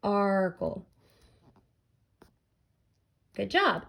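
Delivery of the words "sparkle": "Sparkle" as sp... arkle; segmented sounds. Shown as a demonstration. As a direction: pause after the sp of "Sparkle", then voice arkle. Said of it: "A sound followed by R".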